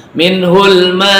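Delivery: Minhul ma, ma held very long and slow; long drawn madd. Shown as a demonstration. Teacher modelling wajib muttasil for class: long ma. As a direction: draw the ma out for five beats. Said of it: "Lebih dari dua ketuk".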